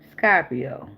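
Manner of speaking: put-on "Scorpio" as "Scah-pio", Southern accent; imitated Southern accent. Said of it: "you even type in your accent".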